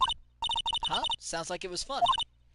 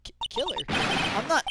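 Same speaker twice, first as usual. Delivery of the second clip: frightened gasp; 5 semitones higher than usual. Acted. Accused girl stammers in disbelief.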